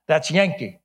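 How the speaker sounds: lightly imitated Texas drawl. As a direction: rule it out like a Texan janitor. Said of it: "strong Texas drawl".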